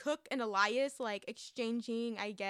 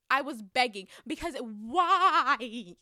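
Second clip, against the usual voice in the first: laughing; 8 dB louder, much slower than usual. Real, not acted.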